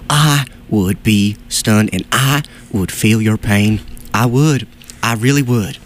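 low, slow breathy whisper of Bill Clinton; husky sympathetic Clinton murmur; Bill Clinton impression. Host feels the listener's pain in a low, slow whispered Bill Clinton voice. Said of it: "if I were Bill Clinton".

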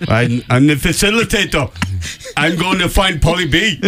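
put-on botched Austrian accent drifting Jamaican; Schwarzenegger sliding into Jamaican. Co-host trying an impression that wanders from Austrian into Jamaican. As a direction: start mock Austrian, slip toward Jamaican by the end. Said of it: "You sounded Jamaican there at the end".

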